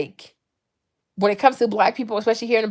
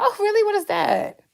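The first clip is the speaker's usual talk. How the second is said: mock innocent question; 11 semitones higher than usual. Speaker answering a backhanded compliment, mock innocent question. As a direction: ask it up high with feigned curiosity.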